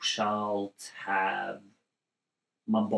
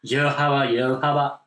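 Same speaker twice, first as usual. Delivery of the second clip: mock Australian; 2 semitones higher, 3 dB louder than usual. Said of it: "That's Australian".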